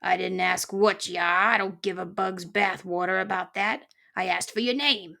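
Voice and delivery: lightly voiced grumpy porcupine; a touch of a cantankerous old creature; cranky old porcupine. Porcupine demanding the intruding mouse's name, mildly cranky.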